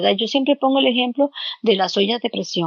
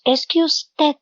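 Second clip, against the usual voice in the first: accusing tone; 6 semitones higher, much slower than usual. Retold or imitated. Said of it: "Generalmente cuando estamos en conflicto decimos".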